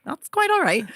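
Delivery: high-pitched, polite reassurance; mock-professional courtesy; imitated polite therapist. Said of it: "And she was like".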